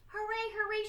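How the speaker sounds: high, gleeful cheering; cheerful shout. Acted. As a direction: cheer it out happily. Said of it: "she shouted".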